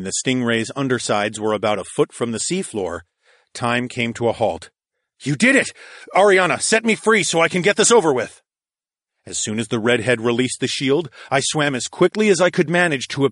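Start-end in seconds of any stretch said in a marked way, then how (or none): 5.2-8.4 1 excited shout. A narrator's reading. Hero excited in battle.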